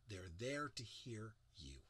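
whispered, slow; soft whisper to draw them in. Shown as a demonstration. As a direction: breathe it out in a whisper. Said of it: "whispered repeat of the phrase".

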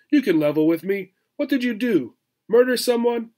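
high, far-off streetwise squirrel voice; tough squirrel. Acted. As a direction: play the squirrel like a jailhouse con. Squirrel character voice.

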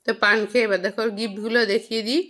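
talking while chewing paan; words round a mouthful of paan; mouth full. Real, not acted. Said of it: "মুখে পান দিয়ে দিয়েছি".

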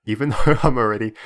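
breaking into real laughter mid-sentence; can't hold back the giggles; laughing. Real, not acted. Gamer breaks his no-laugh challenge, laughing. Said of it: "oh gosh, there I go".

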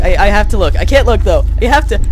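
high, loud panicked rambling; scared out of their wits for real; terrified horror victim. Real, not acted. Terrified, palms sweating, screaming.

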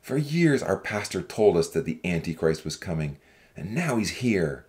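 low-pitched, forceful character harangue; restrained shout of an accusing young man; shouted warning. A narrator's reading. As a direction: call out a warning without much volume. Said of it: "a young man stood up and shouted".

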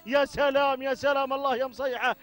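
fervent race call with repeated cries; live play-by-play. Real, not acted. Commentator following camels to the finish, energetic play-by-play. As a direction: keep the race call rolling.

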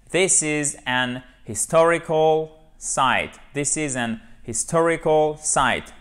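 HISTORICAL with a clearly pushed, audible H; emphasised H. Shown as a demonstration. Teacher modelling the English sentence, H pressed in HISTORICAL. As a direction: lean on the H at the start of "historical". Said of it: "j'ai bien appuyé sur le H ici".

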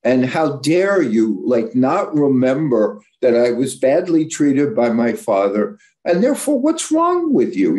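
mock furious wife, pitch shooting up; retold angry yell. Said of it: "she yells at him".

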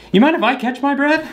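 squeaky high mock voice; high, teasing put-on voice. Mocking the silent translator.

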